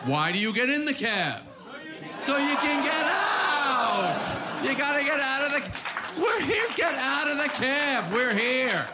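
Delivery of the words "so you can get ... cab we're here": mock yell. Comic acting a cab ride, hammed-up higher shout. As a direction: bark it like a fed-up cabbie.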